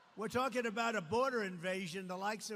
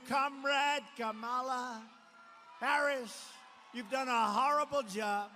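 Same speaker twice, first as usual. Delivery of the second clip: louder, higher, slow jeering address; mock scolding; 4 semitones higher, 8 dB louder, slower than usual. The nation telling Harris off, loud mock scolding. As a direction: scold her like a crowd would. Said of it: "We're gonna go".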